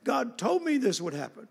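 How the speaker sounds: imitating a tearful child begging the preacher; mild mock sobbing plea of a young girl; crying little girl. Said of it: "was crying and saying".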